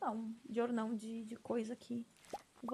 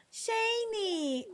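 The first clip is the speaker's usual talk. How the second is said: high, drawn-out call of a name; playful high-pitched holler; 10 semitones higher than usual. Pretend. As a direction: call out Shane's name, stretched and falling. Calls out the character's name.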